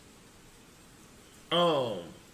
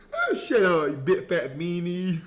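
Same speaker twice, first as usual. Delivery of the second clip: mock whine; 3 semitones lower than usual. Mock whiny retort, laughing.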